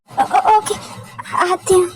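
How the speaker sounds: high stammering okay; scared compliance. Acted. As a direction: agree while trembling with fear. Frightened wife obeys. (डर से हकलाते हुए)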